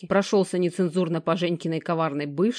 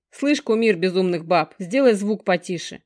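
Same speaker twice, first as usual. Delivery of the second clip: displeased grumbling; 4 dB louder than usual. Acted. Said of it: "недовольно ворчит Женёк".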